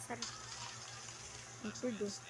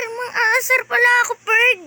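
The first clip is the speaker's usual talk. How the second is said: excited boast; 4 semitones higher, 6 dB louder than usual. Real, not acted. Boasting loudly about teasing.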